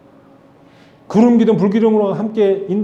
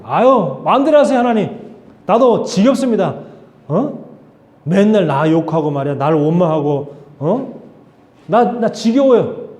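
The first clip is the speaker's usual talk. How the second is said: fed-up outburst. Pretend. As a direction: vent like a leader who has had enough. Imagined fed-up Moses to God.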